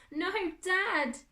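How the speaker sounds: high, loud anguished call; desperate cry. A narrator's reading. Boy beating on the door, desperate cry. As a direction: cry out through a locked door.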